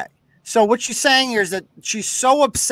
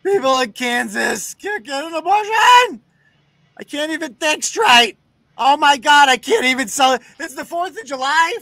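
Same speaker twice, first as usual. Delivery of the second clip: hammed-up outrage; 5 semitones higher than usual. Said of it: "She's like".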